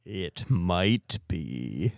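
slow, eerie haunted drawl; ominous, like the podcast is haunted; spooky voice. Acted. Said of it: "my "I've been sick" voice is just my "it might be" voice".

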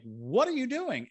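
sudden high call of alarm; startled call. Retold or imitated. Friend calling out to Jesus, startled and high. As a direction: call out after a friend running off.

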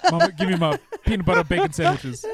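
mock request in a famous singer's voice. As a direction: beg mama for food like the singer. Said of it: "Still talking in the voice".

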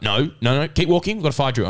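high-pitched retold contradiction; mock yelling teacher. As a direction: imitate a teacher cutting a student off. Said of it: "he was, like, yelling".

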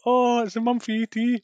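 high, excited thought; sudden happy recognition of the ET mum; recalling spotting the ET mum, delighted. Retold or imitated. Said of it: "I thought".

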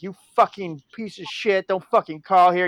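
mock a man yelling down the phone; half-voiced angry tirade; retold angry yelling. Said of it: "started yelling at me and cursing".

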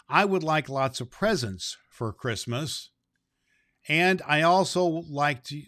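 put-on gentle read-aloud of a child's note; reading a letter. Santa reading Owen's letter to listeners, gently. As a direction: read the child's words kindly.

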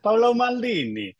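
very high, exaggerated Italian accent on the name; hammed-up Italian accent; mock Italian. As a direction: sing out the name like a proud Italian fan. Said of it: "So they'd be coming up to me".

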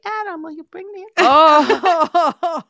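high, loud call to Adam; daughter calling down. Retold or imitated. Daughter calling down to her husband for coffee, high and loud. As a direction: call down the stairs to him. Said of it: "So she's like".

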